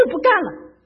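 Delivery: high, loud refusal with a laugh in it; loud protest. Retold or imitated. Retelling quitting the shrimp-peeling job, loud laughing protest. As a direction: blurt out that you quit, half laughing.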